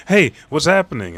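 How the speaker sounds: high, loud questioning call; acted calling out. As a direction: call out to friends as you run up. Nami runs up calling out.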